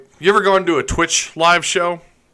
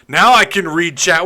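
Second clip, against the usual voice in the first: "Now I can read chat" said higher and louder with relief; louder, pleased; 4 semitones higher, 6 dB louder than usual. Shown as a demonstration. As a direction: cheerfully announce it.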